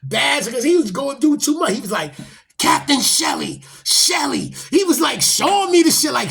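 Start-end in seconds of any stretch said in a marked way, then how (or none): 2.6-4.5 loud, high, drawn-out retold call for the captain; calling out the captain's name. Officer calling for Captain Shelley mid-beating, loud retold shout. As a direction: raise the voice and call him across the room.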